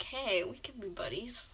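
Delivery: soft whispered offer; a hushed offer of friendship. Retold or imitated. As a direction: whisper it shyly. Making friends after advice.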